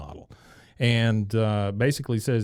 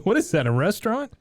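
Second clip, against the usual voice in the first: Bobby; 8 semitones higher than usual. Retold or imitated. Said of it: "he says".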